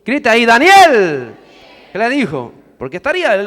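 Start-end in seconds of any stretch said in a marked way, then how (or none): 0.4-1.3 high, loud cry calling out for Daniel; king's desperate call into the pit; anguished shout. Acted. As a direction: cry the name out in anguish, drawing out the end. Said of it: "gritó a Daniel con voz angustiada".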